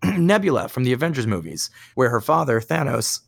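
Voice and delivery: strained voice, needs to clear throat; voice giving out. Real, not acted. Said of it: "losing my voice here".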